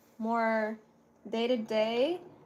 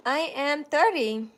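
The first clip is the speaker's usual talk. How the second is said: louder, slow and deliberate age reveal; proud announcement; 3 semitones higher, 5 dB louder than usual. Real, not acted. Answering a question about her age.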